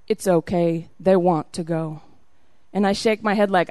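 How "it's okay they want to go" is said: low, reassuring voice; assuring. Retold or imitated. Veteran officer to overwhelmed traveler, assuringly. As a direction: imitate a man gently settling her, pitched down. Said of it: "says assuringly".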